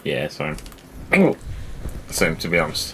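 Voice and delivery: talking through hiccups; words broken by hiccups. Real, not acted. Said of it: "I'm gonna just stop hiccuping".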